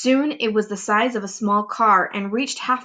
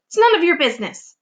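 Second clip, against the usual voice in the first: scolding aunt; 8 semitones higher, 4 dB louder, faster than usual. Acted.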